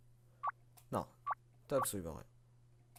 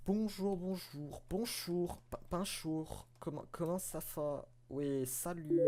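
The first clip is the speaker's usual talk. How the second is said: higher, sing-song greeting in a put-on voice; mock mother voice; 6 semitones higher, slower than usual. Voicing the game's mother greeting her son, higher and sing-song. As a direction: play the chirpy mum saying hello. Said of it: "Je ne sais pas pourquoi je parle comme ça".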